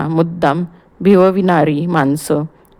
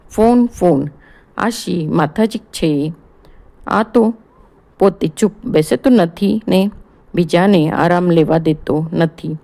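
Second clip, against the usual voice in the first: annoyed grumble. Acted. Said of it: "ગુસ્સાતच".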